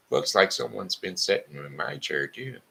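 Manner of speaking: fussy mama bear, lightly done. Acted.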